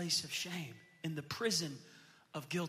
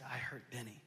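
quiet, lower, head-down admission; ashamed confession; 6 semitones lower, 9 dB quieter than usual. Retold or imitated. Guilty son confessing to father, quiet ashamed. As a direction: admit it softly, ashamed.

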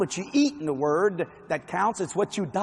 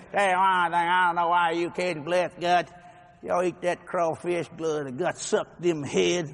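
slow, drawn-out mocking impression; mocking outsider; 3 semitones lower, slower than usual. Outsider scoffing at Cajun food, mocking imitation. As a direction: imitate someone sneering at Cajuns. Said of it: "like some people say".

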